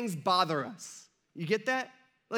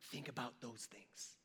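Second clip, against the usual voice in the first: soft quote; 8 semitones lower, 19 dB quieter than usual. Retold or imitated. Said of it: "Paul's like".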